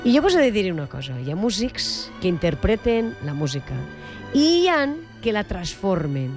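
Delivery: measured presenter's read, emphatic phrase openings; radio introduction. Acted. Radio host presenting a celebrated trumpeter to listeners, announcer style. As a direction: build up the guest with deliberate pauses.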